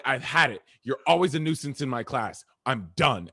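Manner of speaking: a touch of a fed-up teacher; mock angry teacher. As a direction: play the teacher who's had enough. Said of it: "she was like".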